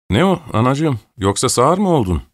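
lightly acted yell at someone not responding; mild scolding shout. A narrator's reading. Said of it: "diye bağırdı".

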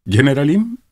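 high, deliberate address; word by word. A narrator's reading. Klinevich addressing the general, pronouncing each word distinctly. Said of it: "sözcükleri tane tane söyleyerek".

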